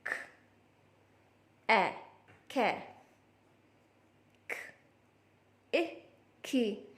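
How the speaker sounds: teacher sounding out letters; slow blending demo. Shown as a demonstration. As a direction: sound out ख then ए then खे, slowly. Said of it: "कैसे?".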